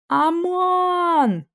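long high call of his name; desperate cry. A narrator's reading. Heroine cries out to Amon in terror, high and drawn out. She rushes to save him.

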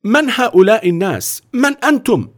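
high, forceful demand; an imposing boss taking charge. Acted. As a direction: boom the question at the strangers. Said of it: "وهو يقول بقوة".

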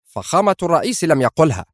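firm, pointed contradiction; stern. A narrator's reading. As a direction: correct her sternly, pitch lifted. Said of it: "التفت إليها قائلا في صرامة".

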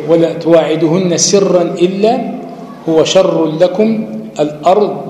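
slow, measured tajweed recitation of the verse; Quran recitation. Shown as a demonstration. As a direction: recite it slowly, holding each sound. (تلاوة مرتلة ببطء)

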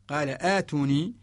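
قال آتوني with hamza then long aa; extended hamza. Shown as a demonstration. Teacher contrasting the other word, آتوني with a lengthened hamza. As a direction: start آتوني on a glottal stop and hold aa. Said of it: "بهمزة ممدودة فقط".

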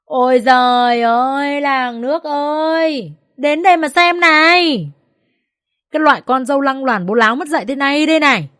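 mother-in-law wails out to the neighbours; wailing shriek. A narrator's reading. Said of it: "gào lên".

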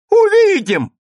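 very high, loud angry cry; angry retort. A narrator's reading. Mayor answers the teacher's threat, angry. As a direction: fling it back in anger. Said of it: "отвечал тот гневно".

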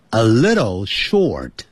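slow, careful "a little short"; standard pronunciation. Shown as a demonstration. Teacher modelling English for radio learners, slow standard pronunciation. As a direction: sound "little" with a light tapped middle. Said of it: "你要讲得很标准".

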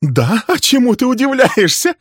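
high, loud, raging accusations; furious tirade. Acted. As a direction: unload years of grievance at him. Wife taunting, enraged.

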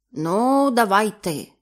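大声命令：好，你来; loud command. Acted. Captain orders the diver.

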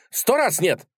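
high, emphatic refusal; stubborn cry. A narrator's reading. Idealist refuses to calm down, stubborn cry. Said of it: "закричал Так".

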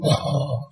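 mock snoring sound; one drawn-in snore, acted out; imitated snore. Teacher mimics listeners asleep during a talk, snoring.

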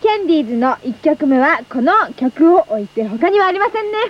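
lively scripted DJ patter; radio song introduction. Acted. Co-host introducing the show's first song to listeners, scripted radio patter.

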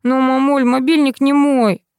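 high, drawn-out coaxing of mum; wheedling. A narrator's reading. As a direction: soften mum up with a slow plea. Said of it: "решил сменить тактику". (заискивающе, нараспев)

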